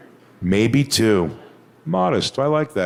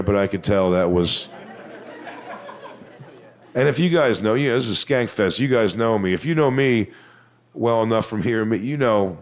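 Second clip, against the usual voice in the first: ordinary talk, nothing marked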